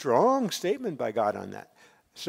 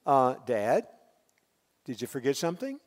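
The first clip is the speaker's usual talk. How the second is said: put-on polite teenage son. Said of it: "very politely saying".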